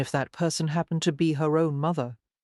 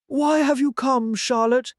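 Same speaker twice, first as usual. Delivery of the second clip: high, louder demanding mother; a hint of a stern mother; cold mother; 8 semitones higher, 5 dB louder than usual. A narrator's reading. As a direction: challenge her daughter sharply. Cold mother confronts daughter.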